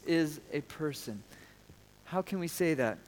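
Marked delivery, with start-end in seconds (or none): 0.0-1.2 slow congregational call. Shown as a demonstration. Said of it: "Would you say that with me?".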